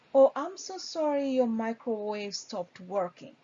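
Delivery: sympathetic, rephrasing the complaint; attentive reply. Shown as a demonstration. Trainer showing a good agent answering the caller, sympathetic. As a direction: show you heard every word. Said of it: "a good answer to that customer".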